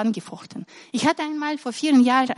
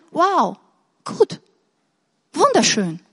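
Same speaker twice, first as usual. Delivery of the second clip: admiring; 4 semitones higher, slower than usual. Retold or imitated. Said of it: "einfach sagen".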